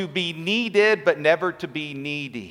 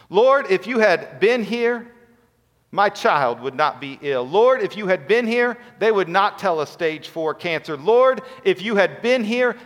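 each Lord pitched higher and louder, a pleading cry; rising lament; 4 semitones higher, 4 dB louder than usual. Retold or imitated. Grieving believers crying to the Lord, rising and louder. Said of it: "she says these words".

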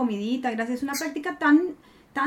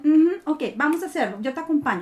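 encouraging other self; 3 semitones higher, 3 dB louder than usual. Retold or imitated. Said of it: "me inventé otra Mónica".

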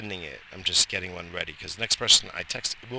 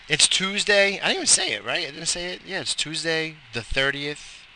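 excited; 6 semitones higher than usual. Real, not acted. Excited Tuesday announcement.

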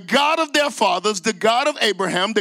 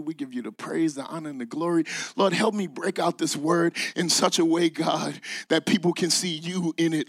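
prayer; 3 semitones lower than usual. Real, not acted. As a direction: pray it low and heartfelt.

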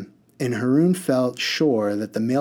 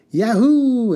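high, loud whoop; yelling yahoo; 12 semitones higher, 7 dB louder than usual. A narrator's reading. Mister Butt whooping while speeding. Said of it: "stopped yelling".

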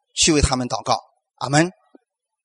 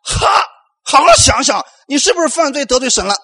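loud, higher, finger-wagging accusation; accusing scold; 6 semitones higher, 3 dB louder than usual. Retold or imitated. Believers scolding a fallen brother, loud accusing voice. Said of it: "我们说了".

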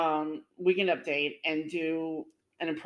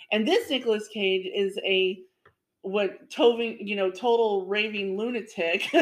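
raving lunatic; 2 semitones higher than usual. Retold or imitated. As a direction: lightly play the wild Nicolas Cage. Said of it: "the real Nicolas Cage is like".

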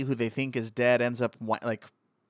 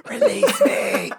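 very high, loud, slow hammed-up alien shriek; alien impression; 8 dB louder, slower than usual. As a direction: squeal it out in front of the mirror. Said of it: "you just go".

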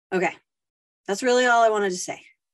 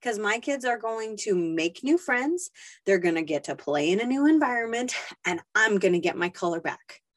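defiant answer; 3 semitones higher than usual. Retold or imitated. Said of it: "you shut up that little voice and you say".

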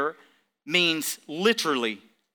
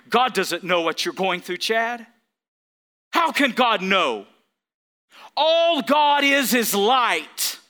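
voicing Satan. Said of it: "Satan just puts this thought in my mind".

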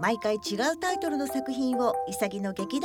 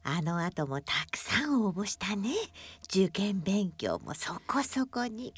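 lightly voiced desk, low and tender; gentle talking desk; 5 semitones lower, 4 dB quieter, slower than usual. Desk answers the doodling girl, gently. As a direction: muse fondly as the girl's companion. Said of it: "机。".

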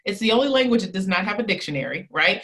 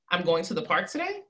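today lifted with a rising tune, softer overall; stress on today; 3 semitones lower, 4 dB quieter than usual. Shown as a demonstration. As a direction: raise today as a question. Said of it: "I'm gonna emphasize it three different times".

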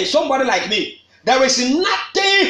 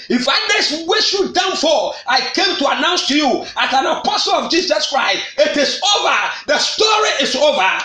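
triumphant declaration; 3 semitones higher than usual. Real, not acted. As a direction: announce the victory with fire. Apostle announcing victory to congregation.

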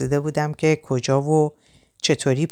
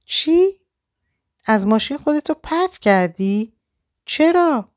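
stunned disbelief; 12 semitones higher than usual. A narrator's reading. Reza hears she jumped from the car, stunned. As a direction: gasp it out in sudden shock. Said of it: "مات و مبهوت گفت".

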